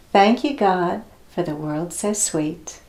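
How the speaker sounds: put-on slow, clear prayer line for children to echo; prayer line to repeat. Shown as a demonstration. Teacher leading children in a thank-you prayer, slow and clear. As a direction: say each line slowly so they can copy. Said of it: "I'm gonna say a line, and then you're gonna copy me".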